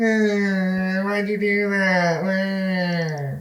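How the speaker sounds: very high, slow voice, Eh stretched long. Retelling how the other speaker complains about being in the shot: imitating the other speaker. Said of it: "I sound like that?".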